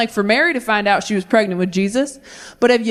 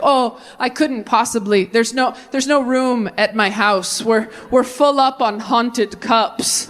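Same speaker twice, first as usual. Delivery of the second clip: mock polite excuse; slower than usual.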